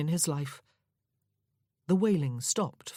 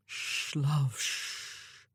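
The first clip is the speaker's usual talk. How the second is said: hushed, softer shushing; soothing whisper; 4 dB quieter, much slower than usual. Acted. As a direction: whisper calm into her ear. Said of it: "he said to her as he carried".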